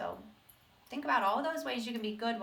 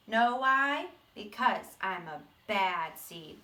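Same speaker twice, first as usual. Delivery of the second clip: a gruff little seed telling his own story; bad seed voice; 3 semitones higher than usual. Teacher reading to the class as the seed, gruff and proud.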